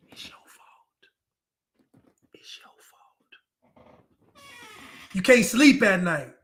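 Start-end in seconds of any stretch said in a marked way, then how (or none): 0.1-4.3 slow, breathy whisper right in your ear. Shown as a demonstration. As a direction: hiss it slowly into their ear like a bad conscience. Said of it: "It's gonna be a whisper".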